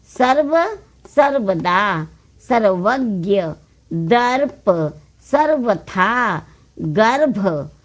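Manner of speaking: slow model reading with sounded r; each word apart, stretched for learners; word drill. Shown as a demonstration. Teacher reading r-sign words for learners, word drill.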